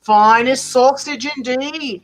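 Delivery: sly dog. Acted. Dog smiling slyly.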